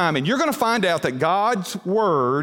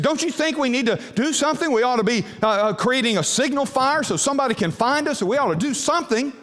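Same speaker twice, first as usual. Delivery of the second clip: anxious nervous man; 6 semitones higher than usual. Retold or imitated. Anxious stranded man pleads.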